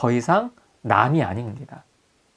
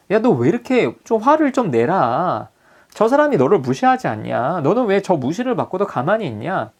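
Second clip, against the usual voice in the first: pushing him to get angry; 5 semitones higher, 4 dB louder than usual. Retold or imitated. Counselor prodding a group member.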